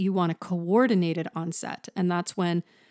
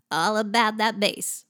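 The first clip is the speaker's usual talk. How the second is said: vocal fry; 2 semitones higher than usual. Shown as a demonstration. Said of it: "puts a vocal fry".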